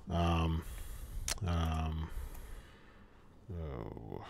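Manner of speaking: fading out over a dropping call. Real, not acted. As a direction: voice cutting out on a bad line. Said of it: "lost him again, man".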